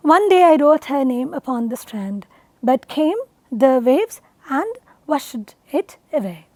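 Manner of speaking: ONE DAY I WROTE flowing, then BUT CAME, THE WAVES in spaced pieces; measured, low verse reading; iambic recitation. Shown as a demonstration. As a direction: recite in metre, pausing between feet in the second line. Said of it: "known as iambic pentameter".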